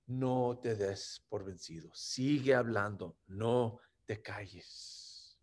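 soft, low, gentle words of comfort; hushed reassurance, slowing at the end; hushed divine words. Acted. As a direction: say it softly as Jesus encouraging. Jesus quoted again, hushed.

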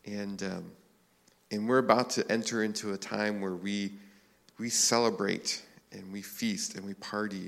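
low, unhurried prayer with pauses. Real, not acted. Pastor praying before the morning's reading, prayerful. Opening prayer, lower and softer.

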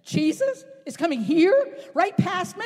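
a blind man sensing his chance coming close; eager beggar. Acted. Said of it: "Blind Bartimaeus says".

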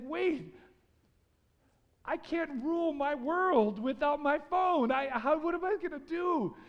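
mock panic. Panicked self-quote without phone.

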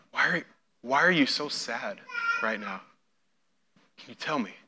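soft, tender, fading to near hush; gentle drawing out. Shown as a demonstration. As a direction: coax her heart open quietly. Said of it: "more of a intrigue, a question, a drawing out of the heart".

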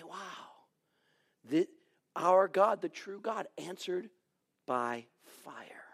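soft, breathless wonder fading to a whisper; awed hush. Retold or imitated. The people marvelling at God's fire, hushed awe. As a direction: let the awe take your breath.

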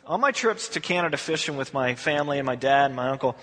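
ordinary talk, nothing marked

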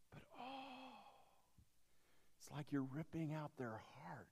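hushed unvoiced whisper. Real, not acted. Preacher whispering to the congregation about losing stuff. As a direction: whisper it like a secret.

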